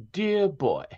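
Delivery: put-on high, lilting 1940s East Coast accent on "Dear boy"; lilting Northeast accent. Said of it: "She had kind of like that lilting".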